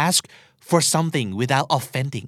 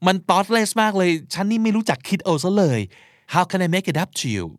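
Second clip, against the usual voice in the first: sincere apology; 6 semitones higher, slower than usual. Shown as a demonstration. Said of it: "นี่คือรู้สึกจริงๆ".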